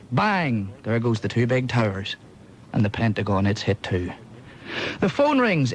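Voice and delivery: measured comic verse reading; poem recital. Acted. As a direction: deliver the rhymes to the audience. Reads a comic poem aloud.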